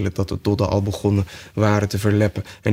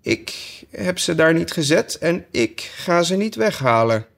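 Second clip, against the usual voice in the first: high, curt sheep voice; 8 semitones higher than usual. Acted. Sheep refuses Alice, high and curt. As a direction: refuse flatly like a stubborn sheep.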